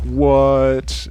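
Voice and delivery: sudden loud startled what; a quick mock-startled yelp; surprised what. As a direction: act out their shock. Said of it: "they're gonna be like".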